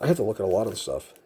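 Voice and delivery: breathless and hurried; talking while short of breath. Real, not acted. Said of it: "I'm out of breath in that one".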